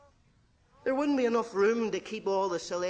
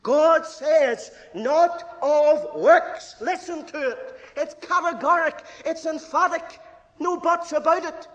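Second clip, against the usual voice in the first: loud, higher emphatic proclamation; preaching at full force; 9 semitones higher, 9 dB louder, slower than usual. Real, not acted. Preacher declaring salvation is not of works, loud preaching. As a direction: pound it home, no buts.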